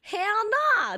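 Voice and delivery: loud, high hell nah; emphatic refusal. Real, not acted. Refusing the burrito challenge with a loud, emphatic no. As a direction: shut the idea down loudly.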